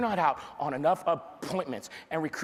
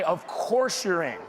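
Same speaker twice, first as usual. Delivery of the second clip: confident reply; 2 semitones lower than usual. Shown as a demonstration.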